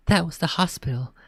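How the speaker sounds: hoarse voice. Acted. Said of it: "in a slow, hoarse voice".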